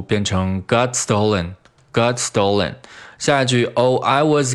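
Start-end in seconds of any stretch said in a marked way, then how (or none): 0.6-2.7 "got stolen" run together, t flowing into s; linked words. Shown as a demonstration. Teacher drilling liaison, "got stolen" said as one unit. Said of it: "got和stolen连读".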